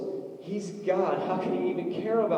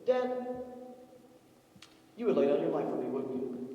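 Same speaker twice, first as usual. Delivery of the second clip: sincere son; 4 dB quieter than usual. Retold or imitated. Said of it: "he goes".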